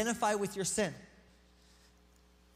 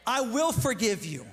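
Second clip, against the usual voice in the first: God's promise; 3 dB louder than usual. Retold or imitated. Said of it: "He says".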